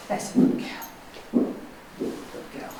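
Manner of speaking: slow, hushed praise to calm the horse; murmured soothing praise; soothing whisper. Real, not acted. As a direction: whisper it softly and slowly to settle her. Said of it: "a good girl in the soothing tone".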